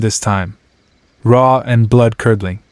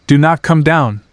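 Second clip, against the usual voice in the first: shouting; 4 semitones higher than usual. Acted. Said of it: "I shouted up to Mark".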